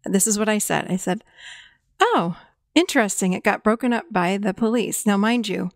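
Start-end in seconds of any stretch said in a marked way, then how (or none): 2.0-5.0 flat even calm reply; monotone. Shown as a demonstration. Mom calmly reflecting her son's news in monotone. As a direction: keep it level and unexcited. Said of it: "my monotone".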